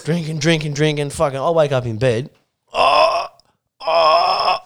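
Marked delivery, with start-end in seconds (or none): 2.7-4.6 high, drawn-out mock groan; acted waking groan. Storyteller waking up in bed after drinking, mock groaning. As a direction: groan as if coming to in pain.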